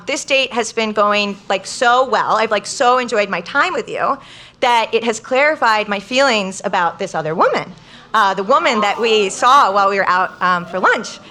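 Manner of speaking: gently retelling a sweet confession; measured, sincere delivery, lingering on the praise. Retold or imitated. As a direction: imitate a date being earnestly sweet. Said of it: "really sweet way where he basically says".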